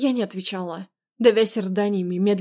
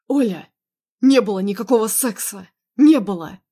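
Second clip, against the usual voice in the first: insistent, punched denial with louder openings; heated, mildly raised denial; emphatic denial; 6 dB louder than usual. Acted. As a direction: deny it firmly, hitting each phrase hard. Husband hotly denies the affair.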